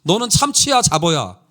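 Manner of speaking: lightly imitated boss grilling staff; interrogating senior pastor. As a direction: put them on the spot, mildly acted. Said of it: "목사들 한 명 한 명을 물어요".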